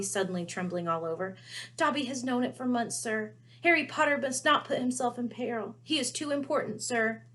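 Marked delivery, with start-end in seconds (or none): 1.8-7.2 a little elf pleading in alarm; urgent house elf. Acted. Dobby voiced.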